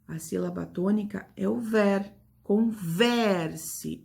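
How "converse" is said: "Converse" with VER drawn out strongly; stress on VER. Shown as a demonstration. Teacher names the tonic syllable, VER stressed in "Converse". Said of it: "É a sílaba que eu pronuncio com mais força".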